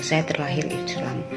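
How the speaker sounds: ordinary delivery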